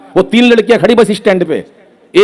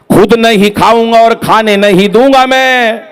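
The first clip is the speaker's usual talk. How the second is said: mock Modi; 4 semitones higher than usual. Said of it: "Modi ने ऐलान किया".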